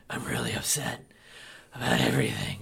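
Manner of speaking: deep, robotic monotone impression; Nebula. Mocking an actor's android performance, deep and robotic. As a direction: drop low and drain out the inflection. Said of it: "she just kinda talks like".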